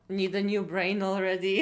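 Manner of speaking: teasing question breaking into laughter; amused, giggly tease; laughing. Real, not acted. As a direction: ask it while starting to crack up. Joking to viewers while cracking up.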